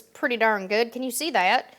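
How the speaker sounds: Southern accent creeping in unplanned; a touch of Southern accent; accidental Southern accent. Real, not acted. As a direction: slip into a Southern twang. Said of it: "Where did that accent come from?".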